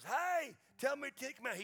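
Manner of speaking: mother prompting her son on video; mama asking. Retold or imitated. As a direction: play the mom coaxing her boy. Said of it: "she goes".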